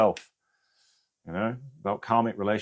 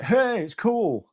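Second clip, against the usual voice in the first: dad's voice; 13 semitones higher, 4 dB louder, much slower than usual. Retold or imitated. Anita's late dad welcoming her on the other side, in a high gentle voice. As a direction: voice the gentle dad from the afterlife lightly. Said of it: "her dad was just like".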